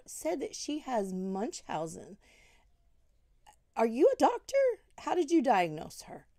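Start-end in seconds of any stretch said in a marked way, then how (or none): 3.8-6.3 indignant challenge. Real, not acted. Confronting him, indignant challenge.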